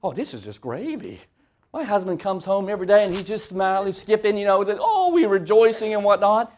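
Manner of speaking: lightly voiced sarcastic wife; a hint of a wife's sarcasm; mock elder's wife. An elder's wife joking about her husband, lightly voiced sarcasm. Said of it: "just ask their wives".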